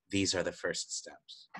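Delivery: slow, hushed mysterious voice; soft, measured near-whisper; imitated whisper. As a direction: drop right down and say it slowly, like a voice in a vision.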